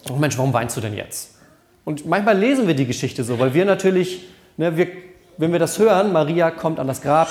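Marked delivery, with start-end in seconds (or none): 0.1-1.3 put-on lower, comforting a crying toddler; soothing a small child. Shown as a demonstration. Pastor showing how one talks to a crying small child, soothing. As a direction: say it like calming a little kid. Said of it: "Man kann ja zu Kindern, zu kleinen Kindern zum Beispiel sagen".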